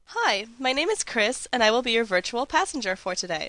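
very high, bright, cheerful, upbeat voice. A researcher demonstrates the in-car voice used with drivers: cheerful, upbeat voice. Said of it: "in a rather cheerful, upbeat voice".

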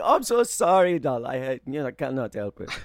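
put-on German accent. Retelling a car ride after taping, the speaker answers her in a put-on german accent. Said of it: "I kept doing the German accent".

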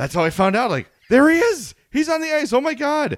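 excited, shocked tone.

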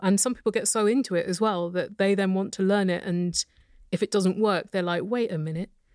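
ordinary delivery

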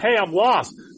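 mock-pleading voice. Explaining a lost mew call, the speaker voices what it says, mock-pleading. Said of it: "You can hear that more of pleading".

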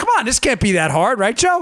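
thick sarcasm. Mocking the idea that a central planner could time every traffic signal: sarcastic. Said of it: "I get you're sensing my sarcasm here".

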